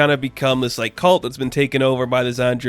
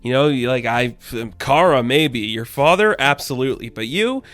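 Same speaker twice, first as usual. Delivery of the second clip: patronize him with fake approval; sarcastic; 2 semitones higher than usual. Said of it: "like, this weird sarcastic tone".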